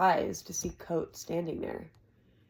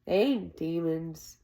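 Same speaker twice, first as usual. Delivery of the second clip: slow, firm correction; firm denial; slower than usual. Acted. Jake firmly correcting the boy about the Chandrian, slow and firm. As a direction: set the record straight. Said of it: "Jake said firmly".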